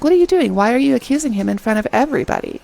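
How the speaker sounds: high-pitched retold challenge; indignant defense. Girly Pop defends him from his accuser, imitated high indignation. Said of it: "defends him".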